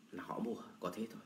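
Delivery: quick unvoiced whisper, fast; a fast whispered throwaway; whispered aside. Real, not acted. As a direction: toss it off under your breath, quickly.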